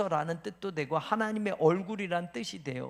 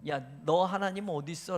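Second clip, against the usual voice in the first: scornful taunt; 2 semitones lower than usual. Shown as a demonstration. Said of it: "이건 무슨 뜻이에요".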